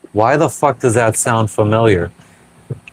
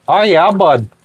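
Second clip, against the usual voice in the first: a higher put-on voice, the yeah stretched and dropping; playful put-on voice, pitched higher; hammed-up oh yeah; 5 semitones higher than usual. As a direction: ham up "Oh, yeah, bud" like a mock hype man. Streamer repeats oh yeah playfully.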